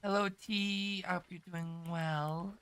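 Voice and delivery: congested morning voice, stuffy. Real, not acted. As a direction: sound stuffed up and just woken. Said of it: "Enjoy my morning voice".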